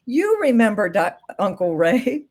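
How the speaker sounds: mock tactless prompting. Shown as a demonstration. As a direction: nudge them as if they should remember. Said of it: "a much gentler way of saying it than saying".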